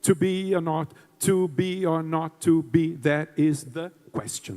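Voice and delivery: slow iambic To be or not to be; weight each second beat gently; iambic verse. Shown as a demonstration. Teacher slowing down Hamlet's line to show the beat. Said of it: "aquilo que a gente já fez".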